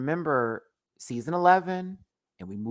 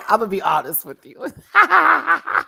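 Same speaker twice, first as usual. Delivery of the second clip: loud, laughing declaration; shouting through laughter; 11 semitones higher, 8 dB louder than usual. Real, not acted. Telling Raja the truth, shouting through laughter. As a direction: yell it while cracking up.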